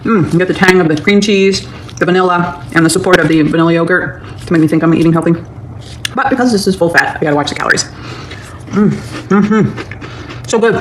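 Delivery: talking with mouth full. Real, not acted. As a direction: talk around a big mouthful. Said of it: "Sorry, my mouth is full".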